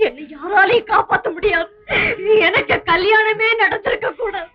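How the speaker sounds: tearful despair. Acted. Woman regrets ever marrying, in tearful despair. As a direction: lament as if nothing can save you.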